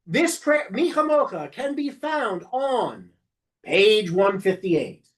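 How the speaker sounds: slow, clear page call; a slow demo call of the prayer and page; announcing the page. Shown as a demonstration. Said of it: "You have to announce the".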